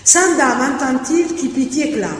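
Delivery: verse recitation; reciting a verse draft. Shown as a demonstration. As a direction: try the variant aloud as verse. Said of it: "pas trop convaincu".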